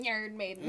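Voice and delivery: a band name slurred into "Yarn Maiden"; weird slip. Retold or imitated. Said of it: "That came out weird. I went".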